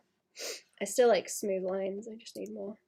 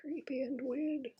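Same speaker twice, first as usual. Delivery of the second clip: creepy whisper; 5 semitones higher, 6 dB quieter than usual. Real, not acted. Reacting to creepy drawing.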